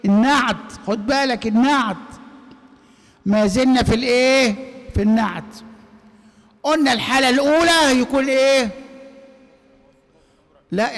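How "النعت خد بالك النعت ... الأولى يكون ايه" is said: raised insistent teaching voice; louder emphatic lecturing; louder emphasis. Real, not acted. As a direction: drive the point home to the class. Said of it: "teacher emphasizing loudly".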